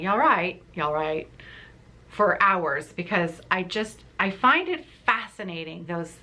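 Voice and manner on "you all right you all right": practicing Yorkshire accent. Shown as a demonstration. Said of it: "I continued to practice saying".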